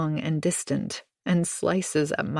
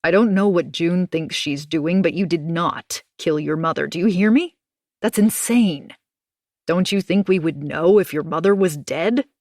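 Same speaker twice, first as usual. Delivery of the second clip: firm; 5 dB louder than usual. Acted. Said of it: "His tone makes me snap to attention".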